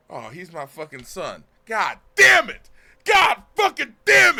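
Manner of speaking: reliving the rage, yelling at the screen; retold furious yelling. Gamer yelling at the screen over the twist, furious. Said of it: "I'm so fucking mad".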